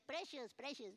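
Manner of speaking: mock Gollum line in Mexican accent. Preacher quoting a creepy movie character, mild Mexican-accented imitation. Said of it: "with Mexican accent".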